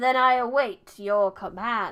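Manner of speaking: big, resounding voice. Narrator reads the gate voice answering the stranger, in a booming voice. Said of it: "the voice booms".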